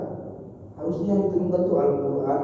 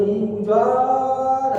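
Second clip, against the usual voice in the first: drawn-out, sing-song whine about the rain; mock grumble; 5 semitones higher, much slower than usual. Preacher mimicking villagers who moan at rain, sing-song whine. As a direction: stretch it slowly like a sulky complaint.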